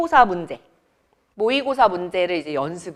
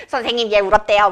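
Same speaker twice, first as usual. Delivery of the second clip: laughing mock tattle; 8 dB louder, faster than usual. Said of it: "막 이러면서".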